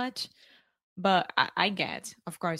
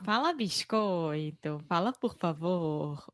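Carioca accent. Shown as a demonstration. Student performing what people ask her to say, Carioca accent. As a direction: show off the Rio de Janeiro accent. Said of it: "Todo mundo vai me pedir pra falar".

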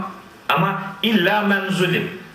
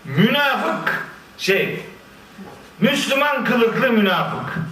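mock angry insult; 4 semitones higher, much slower than usual. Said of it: "öyle sinirleniyorum bazen".

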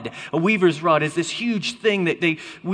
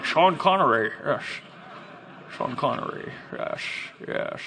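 put-on Scottish accent, trailing softer; Sean Connery; 4 semitones lower, 5 dB quieter than usual. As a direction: savour it in a mock Scottish accent.

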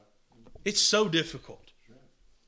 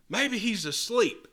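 slow, higher, sarcastic suggestion; slow mock musing, pitched up; mocking taunt; 5 semitones higher, slower than usual. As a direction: drawl it out to rub it in. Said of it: "Elijah mocked them and said".

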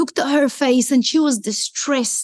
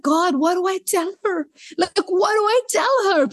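higher-pitched, retold flustered plea; mild panic; 5 semitones higher than usual. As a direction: act out a touch of inner panic. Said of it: "and I'm panicking".

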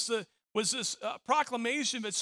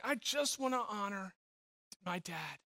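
imitating a grateful daughter, hushed and heartfelt; softly sincere; 2 semitones lower, 6 dB quieter than usual. Grateful daughter wishing to honor her father, softly sincere.

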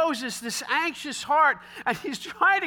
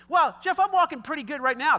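mock objector; 4 semitones higher, 3 dB louder than usual.

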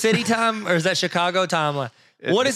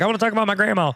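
higher-pitched quick celebrity quote; Jamie Foxx impression; 5 semitones higher, faster than usual. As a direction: lightly imitate an actor pleading for speech time. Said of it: "Jamie Foxx is like".

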